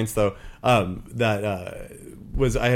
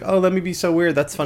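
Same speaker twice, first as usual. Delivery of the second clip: higher, smug self-satisfied mock voice; mocking improv people; 7 semitones higher, 4 dB louder than usual. Mocking improv performers, smug and self-pleased. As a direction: parody someone who thinks being weird is funny.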